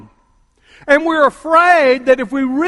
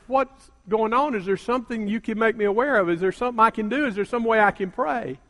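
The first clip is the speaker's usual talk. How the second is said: softer, caring questions; gentle concern; 6 dB quieter, faster than usual. Retold or imitated. Pastor gently questioning the weeping woman, softer and caring. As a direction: ask gently, to comfort.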